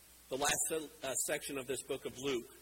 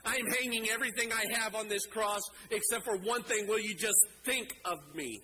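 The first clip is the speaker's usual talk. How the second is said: earnest plea; 4 semitones higher than usual. Acted. Dying criminal pleads with rising urgency.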